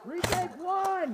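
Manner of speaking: commanding shout. Real, not acted. Ordering retake.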